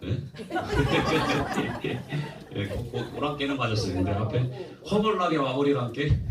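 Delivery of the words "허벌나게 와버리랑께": slow, stretched Jeolla accent; Jeolla dialect. Shown as a demonstration. Preacher showing a Jeolla welcome, Jeolla accent. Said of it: "전라도는".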